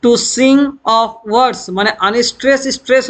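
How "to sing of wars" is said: light "to", stressed "sing", light "of", stressed "words"; "to sing of words" scanned in unstressed-stressed pairs; iambic stress. Shown as a demonstration. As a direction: beat out "to sing of words" weak-strong. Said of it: "unstress হচ্ছে প্রথমটা".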